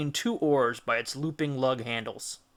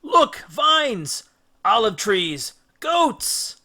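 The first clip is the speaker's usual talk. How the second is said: high, loud, eager cries; excited; 8 semitones higher, 7 dB louder, much slower than usual. Acted. Crewman thrilled at the shore, calling out finds. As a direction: point and call each find with glee. Excited crew spotting land.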